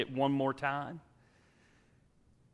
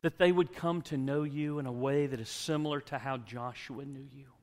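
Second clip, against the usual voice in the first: closing prayer; 2 semitones higher than usual. Acted.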